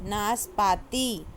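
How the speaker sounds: नाशपाती read slowly; teacher reading नाशपाती. Shown as a demonstration. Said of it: "बोल बोल कर पढ़ना है".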